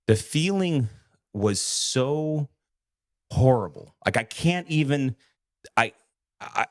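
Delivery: struggling to get the words out; real upset. Real, not acted. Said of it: "it was upsetting".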